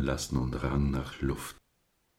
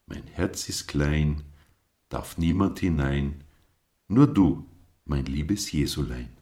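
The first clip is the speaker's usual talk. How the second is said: put-on child's prayer. A narrator's reading. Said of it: "So betete Flori".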